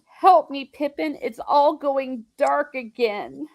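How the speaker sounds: mildly acted distress, slowing at the end; retold plea. Mary begging Pippin as darkness returns, lightly acted plea. Retold wounded hobbit pleading for help.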